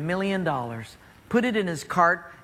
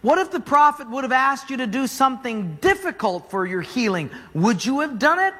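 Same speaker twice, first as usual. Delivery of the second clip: pleading servant; 5 semitones higher than usual. Acted. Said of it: "his servant says".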